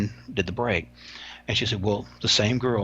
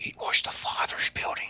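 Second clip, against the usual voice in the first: put-on whispered Irish accent. Retelling what a guy was heard saying, whispered Irish-guy impression. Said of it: "I'm gonna do one of an Irish guy".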